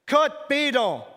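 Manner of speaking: high, loud, slow frantic demand. Retold or imitated. Guard demanding the bottle, high and frantic. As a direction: demand it in panic. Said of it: "frantic tone of voice".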